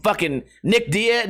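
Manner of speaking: ordinary talk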